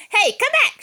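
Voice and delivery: high, loud commanding shout. Acted. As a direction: call the fleeing troops back. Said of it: "shouted the Big Cheese".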